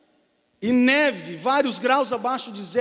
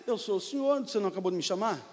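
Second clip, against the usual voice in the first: softer, calm divine answer; voice of God; 2 semitones lower, 5 dB quieter, faster than usual. Acted. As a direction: quietly remind him he called.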